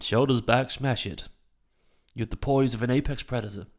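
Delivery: badly faked posh English accent. Shown as a demonstration. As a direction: have a go at talking posh. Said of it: "speak in a posh accent".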